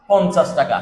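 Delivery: পঞ্চাশ with a plain n before the ch sound; ঞ as dental n. Shown as a demonstration. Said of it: "ইয়টা দন্তান্ন মতো উচ্চারণ হয়". (পঞ্চাশ-এর ঞ দন্ত্য ন-এর মতো উচ্চারণ)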